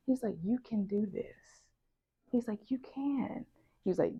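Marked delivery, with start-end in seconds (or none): 0.4-1.6 soft, slow encouragement; retold reassurance. Advisor encouraging a struggling student, retold reassurance. 2.7-3.4 quiet, gentle insistence; retold reassurance. Advisor insisting to doubting student, retold reassurance.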